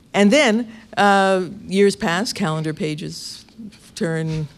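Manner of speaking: slow, mock-cinematic narration of passing time; lightly hammed-up film voice-over, drawn out; mock movie montage. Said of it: "Just like in the movies".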